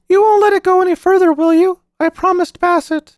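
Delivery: put-on high, urgent child voice; a boy pleading to keep a secret; anxious boy. A narrator's reading. Narrator voices the boy Paul.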